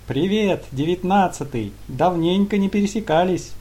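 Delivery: gurgling alien voice. Acted. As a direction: greet him like a gleeful slime creature. Slime demon greets cheerfully.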